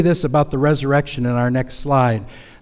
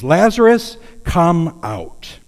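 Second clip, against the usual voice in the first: a commanding shout, pitched high; loud call; 5 semitones higher, 6 dB louder, much slower than usual. Acted. Jesus at the tomb calls Lazarus out, loud commanding shout. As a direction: call the dead man out of the tomb with full force. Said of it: "Jesus called out in a loud voice".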